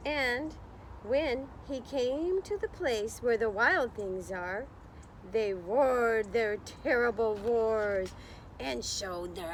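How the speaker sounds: put-on slow, lilting read-aloud for children; story narration. A narrator's reading. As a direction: read it like storytime, drawing out the words. Reading picture book to class.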